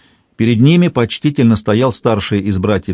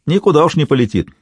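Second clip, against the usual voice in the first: exclaiming; 7 semitones higher than usual. A narrator's reading. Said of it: "воскликнул Майко".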